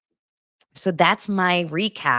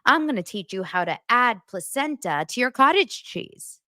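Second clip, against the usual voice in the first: 1 mock influencer; 2 semitones higher than usual. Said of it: "She's gonna be like".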